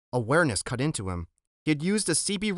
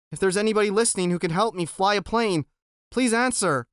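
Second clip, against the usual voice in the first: pleading; 6 semitones higher, 3 dB louder than usual. Acted. Boy pleads on radio.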